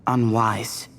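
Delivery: slow, grave reading of an ancient decree; solemn inscription reading. Acted. Reading the king's carved message to companions, slow and solemn. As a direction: intone the king's words slowly. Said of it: "I'll try and translate it".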